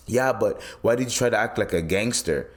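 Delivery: lightly mimicked Indian accent. Indian chef questions the worker's act, in a light Indian accent. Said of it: "I'm doing the accent".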